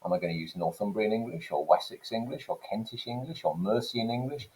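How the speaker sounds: lightly acted pondering; William Caxton, puzzled. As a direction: weigh up the options with rising questions. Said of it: "he's scratching his head thinking".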